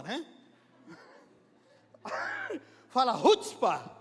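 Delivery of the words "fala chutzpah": punchy, forceful "rutzpah"; with chutzpah. Shown as a demonstration. Preacher urging congregation to repeat it, bold "rutzpah". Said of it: "com rutzpah".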